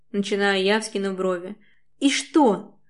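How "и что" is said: spat out. A narrator's reading. Wife spits it back at him, angry. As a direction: spit the question back, higher. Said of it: "выплёвывает мне в лицо она".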